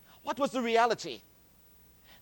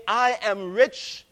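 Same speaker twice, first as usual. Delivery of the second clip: proud boast; 7 dB louder, slower than usual. Retold or imitated. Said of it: "you say".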